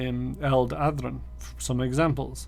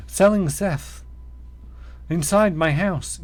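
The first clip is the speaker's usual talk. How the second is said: aggrieved captive. Acted. Captive tells of wizard imposter.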